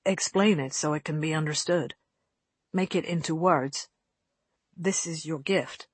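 lightly voiced cult captor, measured and grave; a hint of a solemn robed man issuing orders; understated ceremonial command.

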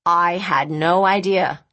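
astonished. Acted. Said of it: "Rachel said in astonishment".

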